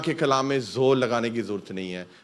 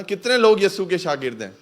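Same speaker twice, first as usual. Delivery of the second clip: ordinary delivery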